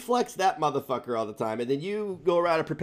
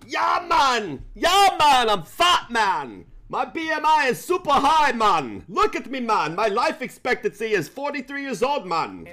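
high, loud hammed-up dude voice; mock bro voice; 8 semitones higher, 4 dB louder than usual. Joking about his own weight, in a loud mock bro voice. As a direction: yell it like a dumb bro, man at every end.

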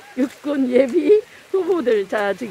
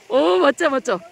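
laughing cheer; 2 semitones higher than usual. Real, not acted. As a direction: whoop through a laugh.

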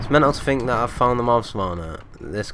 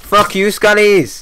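much louder, much higher, slow yell; furious shout; 13 semitones higher, 13 dB louder, slower than usual. Real, not acted. Gamer yelling at attacking mobs, furious slow shout. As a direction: bellow the insult at the mobs.

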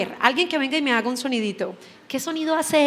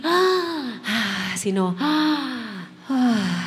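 demo open sighs; much slower than usual. Shown as a demonstration. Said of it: "No es así".

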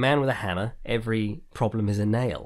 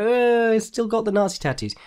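much higher, incredulous sarcastic retort; sarcastic disbelief; 12 semitones higher than usual. Retold or imitated. Answering fans who excuse the tattoos, high incredulous sarcasm. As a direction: point out the obvious in mock disbelief.

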